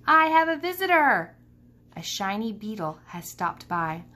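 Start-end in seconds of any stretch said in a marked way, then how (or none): 0.1-1.3 gasp, then a high, loud happy exclaim; thrilled to find company; delighted surprise. A narrator's reading. Ivan spotting a beetle in his domain, gasping delighted surprise.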